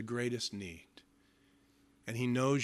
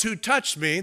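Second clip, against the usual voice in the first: a touch louder call; Jesus calling out; 4 semitones higher, 4 dB louder than usual. Retold or imitated. Jesus asking the crowd, mild call. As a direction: ask the crowd firmly. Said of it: "when Jesus yells".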